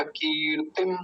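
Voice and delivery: कीर्तिम as long "keer" plus short "tim"; careful teaching कीर्तिम, first vowel long. Shown as a demonstration. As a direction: stretch की in कीर्तिम, keep ति brief. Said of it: "क पर बड़ी की मात्रा".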